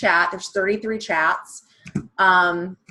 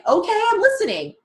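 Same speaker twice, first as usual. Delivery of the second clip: coy reluctant reply; 11 semitones higher than usual. Retold or imitated. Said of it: "they're like".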